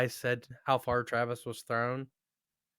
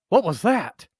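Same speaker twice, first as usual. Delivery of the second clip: alien craft voice; 6 semitones higher, 9 dB louder than usual. Retold or imitated. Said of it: "the craft's like".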